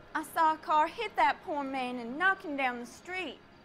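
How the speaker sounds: put-on really strong, thick American Southern accent. Answering questions about what happened outside, in a really southern accent. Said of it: "you got a really southern accent".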